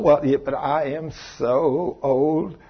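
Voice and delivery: slow, soft, put-on whine about age; mock whining. Preacher mimicking a woman fretting about forty, mock whine. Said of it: "imitated woman complaining".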